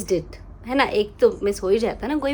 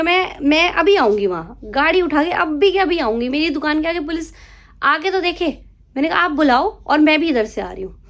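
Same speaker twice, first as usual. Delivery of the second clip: fierce retort; 4 semitones higher, 3 dB louder than usual. Retold or imitated. Retelling fight with customer.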